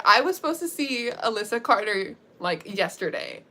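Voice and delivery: retold panic, building to a loud outburst; worked-up, ending in a loud demand; freaking out. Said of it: "Anaya starts freaking out".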